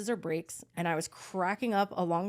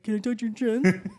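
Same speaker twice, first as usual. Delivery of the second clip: louder, giggling question; laughing mock plea; 5 dB louder than usual. Mocking the guy, asking through laughter. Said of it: "this guy's like".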